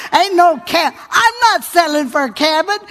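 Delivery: loud, insistent refusal; loud defiance. Real, not acted. Preacher rejecting a cabin to the church, loud and insistent.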